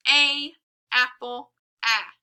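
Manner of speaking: ah said open with a smiling mouth; short a sound. Shown as a demonstration. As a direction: stretch the mouth wide for ah. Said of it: "Remember, A, our mouth is a smile almost".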